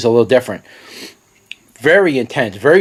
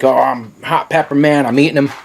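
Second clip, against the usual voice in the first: mock tough guy. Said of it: "make you think".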